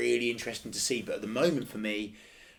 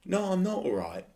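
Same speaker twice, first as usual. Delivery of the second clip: raised, exasperated protest; real annoyance; 2 semitones higher, 4 dB louder than usual. Real, not acted. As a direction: let the irritation push your voice up. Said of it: "it annoys me".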